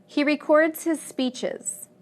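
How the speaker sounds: records as re-CORDS; verb stress, second syllable. Shown as a demonstration. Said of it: "second syllable in the verbs".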